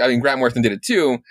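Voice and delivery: ordinary talk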